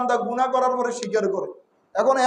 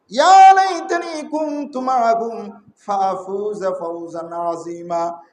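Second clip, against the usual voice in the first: regretful cry; 4 semitones lower, slower than usual. Acted. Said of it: "আবার বান্দা চিৎকার দিয়ে বলবে".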